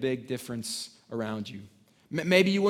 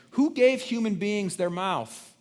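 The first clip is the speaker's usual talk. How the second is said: higher, louder, rising rebuke; God questioning Moses, higher and louder; God's voice; 6 semitones higher, 4 dB louder than usual. Retold or imitated. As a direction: speak as the Lord challenging Moses.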